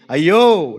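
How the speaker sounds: Paul's anguished cry from the soul. Acted. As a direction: cry out in torment. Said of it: "ఎర్రి కేక".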